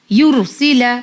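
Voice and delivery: "युरसिला" with a full, heavy r; thick r. Shown as a demonstration. Teacher demonstrating the rule, "युरसिला" with heavy r. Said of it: "रॉ को हमने मोटा पढ़ा है".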